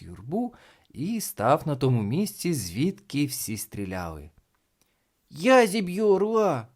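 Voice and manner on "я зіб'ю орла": put-on loud, high boyish declaration; bold announcement. A narrator's reading. Boy stepping up to shoot, loud bold announcement. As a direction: call it out boldly to all.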